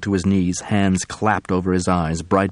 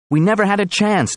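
high, desperate pleading; 13 semitones higher, 4 dB louder than usual. Acted. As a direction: beg him to understand. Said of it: "as if he were pleading".

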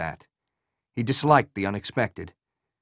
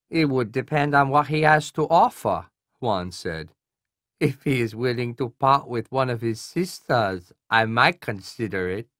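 nasal Korean colonel. Acted. Voices Colonel Hwan on phone.

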